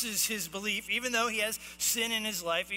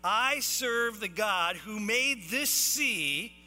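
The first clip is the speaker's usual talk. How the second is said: slow, forceful proclamation; emphatic declaration; 2 semitones higher, 4 dB louder, much slower than usual. Acted. Jonah telling the sailors who he serves, slow proclamation. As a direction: declare it weightily, word by word. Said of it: "the minute he said who he serves".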